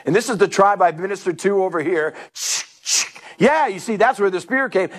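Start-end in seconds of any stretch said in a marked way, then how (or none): 2.3-3.1 short, sharp double shh; imitated shushing noise. Preacher mimicking a sound from the missionary story, short hissed shushes. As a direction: hiss two quick shushes.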